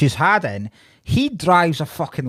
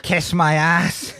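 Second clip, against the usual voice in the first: slow, spelled-out English translation; English version; much slower than usual. Retold or imitated. Comedian quoting her saying it in English, slow English version. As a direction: say it slowly in non-Irish English. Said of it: "and then she says in English".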